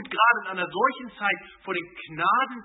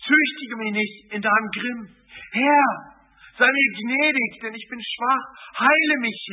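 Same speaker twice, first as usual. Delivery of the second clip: louder, pleading psalm prayer read with fervour; earnest prayer reading; 2 semitones higher, 3 dB louder than usual. Acted. Preacher reading the psalmist's plea to God, fervent and pleading. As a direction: cry out the psalm to the Lord.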